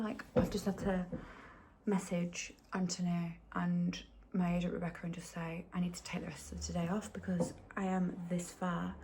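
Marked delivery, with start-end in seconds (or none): 1.9-8.9 soft, teary whisper; real whisper on the edge of crying. Real, not acted. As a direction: hold back tears and whisper it. Trying not to cry.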